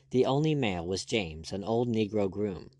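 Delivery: ordinary delivery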